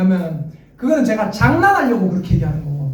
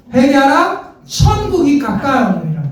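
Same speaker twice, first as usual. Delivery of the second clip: proclaiming prophet; 5 semitones higher, 3 dB louder, slower than usual. Retold or imitated. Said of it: "뭐라고 했습니까?".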